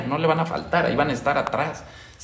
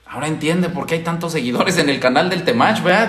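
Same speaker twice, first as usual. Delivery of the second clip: ordinary delivery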